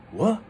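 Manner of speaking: "What" rising steeply and short; questioning upward swoop on "What"; suspicious second tone. Acted. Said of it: "kinda, like, suspicious".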